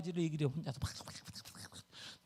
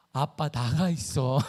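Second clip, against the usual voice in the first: low, slow, drawn-out order in imitation; nephew dismissing dad; 6 semitones lower, slower than usual. Imitating sick nephew telling dad to leave, low and slow. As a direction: drag it out as you send dad away. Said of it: "우리 조카가 갑자기".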